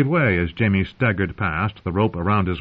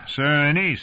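raised naming of Anise; mocking knight; 7 semitones higher than usual. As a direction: say "Sir Anise" high and pointed. The speaker voices the name.

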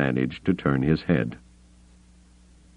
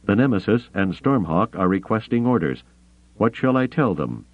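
higher, urgent officer voice; 4 semitones higher than usual. Acted. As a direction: ask urgently for orders.

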